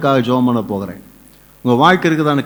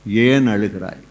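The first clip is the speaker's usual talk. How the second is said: tender question; 3 semitones lower, much slower than usual. Acted. Voices Jesus asking the weeping.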